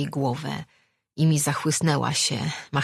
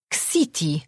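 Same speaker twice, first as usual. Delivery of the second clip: discouraged. A narrator's reading. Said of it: "popatrzył na nią zniechęcony".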